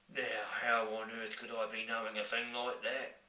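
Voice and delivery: giant voice. Acted. Giant replies.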